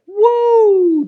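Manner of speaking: long, high, loud mock whoa; shocked whoa. Man retelling how the insult hit him, shocked. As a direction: draw out a big amazed whoop.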